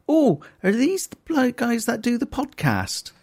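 put-on West Country accent. Retelling a stranger in West Country accent. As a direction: mimic a West Country local. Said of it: "I'm doing it in, like, a West Country accent".

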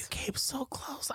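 slow, drawn-out whisper; whispered echo. Retold or imitated. Co-host echoing Ann Lister's line, slow whisper. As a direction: echo it in a hushed, mock-tearful whisper.

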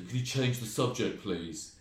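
awkward, timid request; self-conscious. Retold or imitated. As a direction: ask it embarrassed and unsure. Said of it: "goes really self-consciously".

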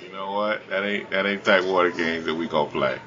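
ordinary talk

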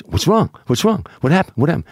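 high, rapid-fire worried questions; urgent alarm. Retold or imitated. Joey finding his girl hyperventilating, urgent alarm.

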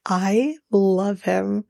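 slow, drawn-out adoration; fond gushing. Real, not acted. Host reacting to Manuel's contract joke, fondly gushing. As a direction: stretch each word with affection.

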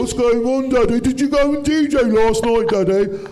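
high, loud Black Country child impression; Black Country accent. Kids waking dad with questions, Black Country accent. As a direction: pipe up like an eager Black Country kid. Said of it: "in a black country accent".

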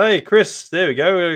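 a lifted, happy hi; cheery greeting. Real, not acted. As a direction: call out to a friend who just showed up. Greeting viewer who joined live.

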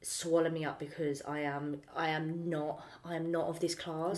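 low, soft voice of private thought; quiet inner dread. Acted. Walking into an event above one's class, quiet inner dread. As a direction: say it inwardly, small and hushed.

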